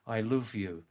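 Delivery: "love" said with a Scouse oo vowel, luv; Scouse accent. Shown as a demonstration. Contrasting for viewers, "I love you" in a Scouse accent. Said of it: "That's Scouse accent".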